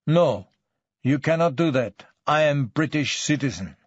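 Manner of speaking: put-on accented suspect objecting in stiff English; lightly voiced immigrant suspect, alarmed; protesting foreign suspect. Suspect protests deportation threat.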